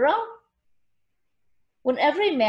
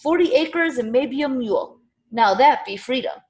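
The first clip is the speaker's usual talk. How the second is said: louder, higher rallying cry, held back; narrated shout; 4 semitones higher, 6 dB louder than usual. A narrator's reading. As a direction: proclaim it to rally the crowd. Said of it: "raised his arms and shouted".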